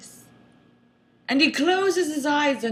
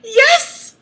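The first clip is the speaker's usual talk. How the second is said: pleading; 13 semitones higher, 6 dB louder than usual. A narrator's reading. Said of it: "It's a plea".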